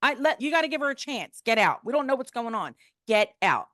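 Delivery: high, loud acted ordering-out; commanding outburst. Doctor throwing the surgeons out, commanding outburst. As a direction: imitate a fierce doctor, high and forceful.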